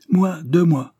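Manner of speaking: high, loud, crisply separated words; clearly articulated. A narrator's reading. Employee stating his demand to the boss, clearly articulated. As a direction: pronounce each word distinctly and forcefully. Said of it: "articula nettement Gâte-à-Pierre".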